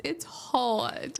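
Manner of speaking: "It's hard" as "hahd", no r; mild Brooklyn accent imitation. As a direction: quote the kid's Brooklyn "hard". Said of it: "He always says".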